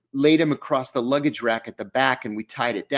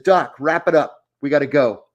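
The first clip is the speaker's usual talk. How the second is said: louder, pressing call to wrap up; urgent order; 5 dB louder than usual. Retold or imitated. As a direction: hurry the doctor along, firm and loud. Urgent order in operating room.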